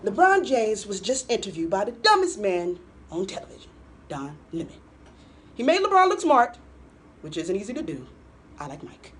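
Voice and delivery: hammed-up Trump impression reading his tweet. Host reading a tweet to her co-host, as Trump in a hammed-up voice. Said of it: "I'm gonna do this in my Trump voice".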